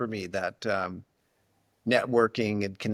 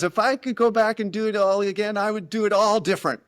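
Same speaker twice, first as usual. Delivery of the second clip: higher, fast wistful retelling; quoting a friend; 9 semitones higher, 5 dB louder, faster than usual. Retold or imitated. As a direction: quote him with regret, quicker. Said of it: "he goes".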